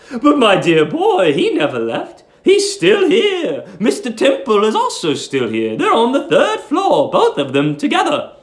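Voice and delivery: put-on high, fussy voice of a sweet old landlady. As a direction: coo it like a doting old landlady.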